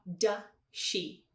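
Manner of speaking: "da she", does she merged with one SH; linked sounds. Shown as a demonstration. Teacher demonstrating linking, "da she" with no z sound. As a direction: run "does she" together as "da she". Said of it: "a gente tende a falar".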